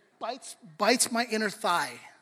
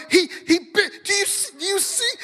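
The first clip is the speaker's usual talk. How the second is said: high, loud aggrieved complaint; tattling to wife; 12 semitones higher, 11 dB louder than usual. Retold or imitated. Pastor tattling on his son to his wife, high loud aggrieved. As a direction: tell on the kid, outraged and loud. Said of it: "And I'm going".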